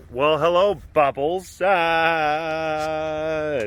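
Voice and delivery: bright high hello to a pet; high greeting voice. Real, not acted. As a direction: greet the cat sweetly. Greeting cat in baby talk.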